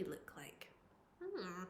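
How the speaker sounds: soft wondering whisper. Shown as a demonstration. Teacher wondering aloud to pupils in a whisper. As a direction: whisper it, musing.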